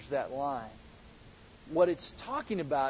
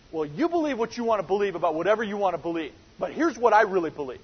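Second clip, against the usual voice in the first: breezy relativist; faster than usual. Retold or imitated. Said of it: "would be like".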